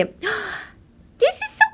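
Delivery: very high, slow, breathy-cute squeal; adoring squeal. Shown as a demonstration. Seeing a baby's tiny feet, high adoring squeal. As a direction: melt over baby feet. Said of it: "この世の周波数ぶっちぎる".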